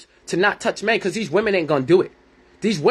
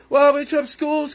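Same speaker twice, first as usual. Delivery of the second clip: high, slowed mock of naysayers; put-on objector's voice, pitched up; mocking imitation; 7 semitones higher than usual. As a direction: parrot them in a higher, drawn-out voice. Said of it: "I hear people all the time".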